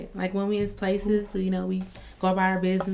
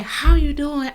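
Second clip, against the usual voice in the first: smiling greeting; 7 semitones higher, 6 dB louder, slower than usual. Retold or imitated. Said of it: "She smiled so big".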